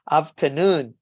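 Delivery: "afternoon" stressed on NOON, swooping then falling; third-syllable stress. Shown as a demonstration. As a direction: hit the last syllable of "afternoon". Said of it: "primary stress on the third syllables".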